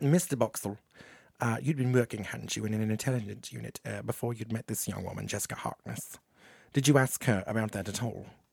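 nasal sharp interviewer voice. Quoting a television interviewer's question to Boxall: nasally sharp Stuart Littlemore voice. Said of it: "He kinda had that nasally, kinda sharp tone".

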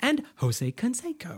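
staccato cartoon voice. Imitating how Mr. Burns says a player's name, staccato Mr. Burns voice. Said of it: "hits this weird, like staccato thing".

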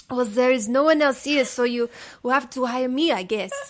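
put-on French accent. Speaker doing the bit again as asked, now in a French accent. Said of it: "just do it in French".

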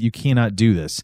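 normal talking voice

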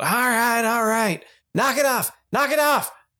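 little voice shouting. Storyteller voices a halfling behind a door yelling at barking dogs, small voice yelling. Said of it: "you hear this smaller voice yell out".

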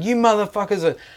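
high-pitched freak-out. Retelling a story about the moment he lost his temper, retelling flipping out. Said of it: "And I flip out".

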